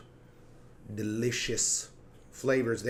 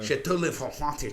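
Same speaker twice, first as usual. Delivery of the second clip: pretentious wine snob; 5 semitones higher, 6 dB louder than usual. Retold or imitated. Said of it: "like a wine snob".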